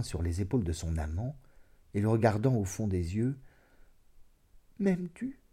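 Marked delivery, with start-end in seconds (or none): 4.8-5.4 high, soft, searching question; tender questioning. A narrator's reading. Woman asking her lover about his love, tenderly. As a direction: ask it gently, lifted and intimate.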